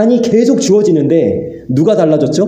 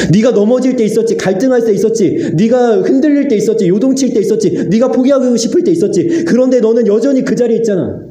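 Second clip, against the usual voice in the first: a gentle, higher voice of God, pleading then firm; voicing God; 3 semitones higher than usual. God reassuring the weary pastor, raised and tender. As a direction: speak as God gently rebuking his servant. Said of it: "하나님이 저에게 말씀하시더라고".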